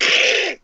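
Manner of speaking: wordless Donald Duck squawk; Donald Duck noise. Shown as a demonstration. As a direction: make a short, voiceless duck-like noise. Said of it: "I can make the sound".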